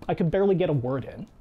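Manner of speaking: ordinary talk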